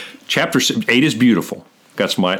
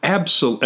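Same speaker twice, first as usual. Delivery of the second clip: ABSOL- started higher, then broken off; emphatic denial; 5 semitones higher than usual. Retold or imitated. Pastor voicing Paul's Greek answer to co-host, emphatic. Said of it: "in the Greek is emphatic".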